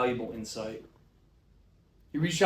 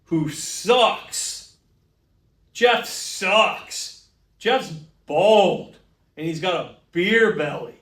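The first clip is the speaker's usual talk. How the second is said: ranting louder; 3 semitones higher, 3 dB louder, slower than usual. Acted. Ranting about coworker Jeff.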